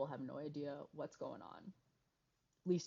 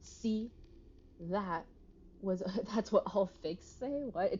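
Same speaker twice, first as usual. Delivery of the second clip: loud triumphant ha; loud gloating; 4 semitones higher, 9 dB louder, slower than usual. Acted. Character catching the fake, loud triumphant. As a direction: crow it like you caught them out.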